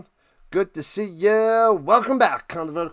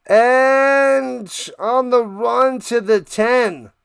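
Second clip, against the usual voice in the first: drawn-out, louder play-by-play; play-by-play call; 5 semitones higher, 5 dB louder, much slower than usual. Real, not acted. Calling a run to the ten, drawn-out live commentary. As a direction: stretch it out as the runner goes.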